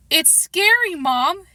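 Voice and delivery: put-on boy pleads with his mother, lightly scared; pleading. A narrator's reading. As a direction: beg her not to send you. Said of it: "His voice was filled with pleading".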